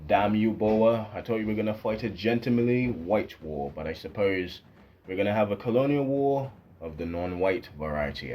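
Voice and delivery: lightly voiced indignant British colonial officer; a hint of a huffy imperial Briton; mock British officer. British officer cursing the Boer guerrillas, mildly indignant.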